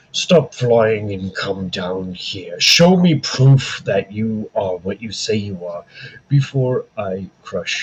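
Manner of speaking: slow, commanding tree voice; a stern old tree giving orders, slowly; talking tree. Acted. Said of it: "the tree says to you, Ryan".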